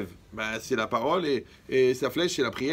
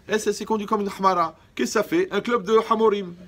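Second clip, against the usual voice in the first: riant; 7 semitones higher, 5 dB louder than usual. Real, not acted. Joking punchline to audience.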